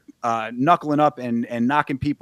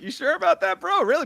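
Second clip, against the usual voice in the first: much higher incredulous squeak; Tim Robinson; 14 semitones higher than usual. Retold or imitated. Doubting the bare-handed fighter, high mock disbelief. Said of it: "I was like".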